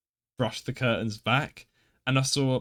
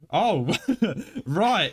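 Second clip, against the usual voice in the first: awkward laugh; 6 semitones higher than usual. Retold or imitated. Awkward reply to attendant.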